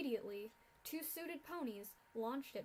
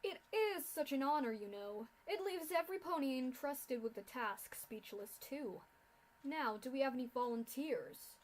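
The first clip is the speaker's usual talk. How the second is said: gloating speech. Acted. Gloating official continues speech.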